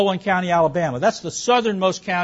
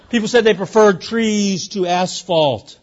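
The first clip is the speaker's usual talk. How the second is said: slow, with a laugh, landing the result; amused punchline; 3 semitones higher, 4 dB louder, slower than usual. Real, not acted. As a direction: let the laugh carry the punchline.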